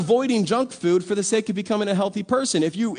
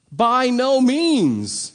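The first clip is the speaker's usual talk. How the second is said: drawn out, louder, higher By no means; emphatic refusal; 5 semitones higher, 5 dB louder, much slower than usual. Acted. Paul rejecting sin for more grace, emphatic and drawn out. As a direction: stretch By no means slowly, raised and firm. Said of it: "says Paul".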